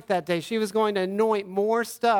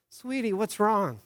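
tender comfort; 2 semitones higher than usual. Retold or imitated. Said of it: "Aubriana, crying, and I go".

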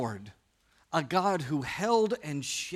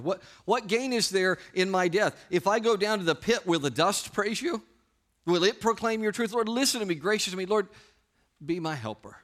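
urgent plea; 4 semitones higher than usual. Acted. Psalmist pleading with God, acted.

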